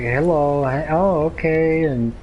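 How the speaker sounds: slow, drawn-out hint of Grandma's way of talking; a touch of grandma's Spanish-accented drawl; lightly voiced grandma. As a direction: lightly imitate a grandma, stretching the words out. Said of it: "Grandma would be like".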